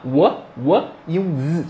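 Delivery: "w" as WUH, then buzzing "z"; sounding out "was". Shown as a demonstration. Teacher building the word for students, "w" plus buzzed "z". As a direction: slowly join WUH and a voiced "z". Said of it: "som de z".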